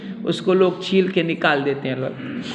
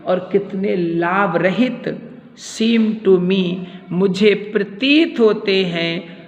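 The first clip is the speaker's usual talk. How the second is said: slow, emphatic cry to God, read aloud; declaimed lament; 2 semitones higher, slower than usual. Acted. Teacher voices Hamlet weary of the world, declaiming. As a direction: call it out in weighted, separate phrases.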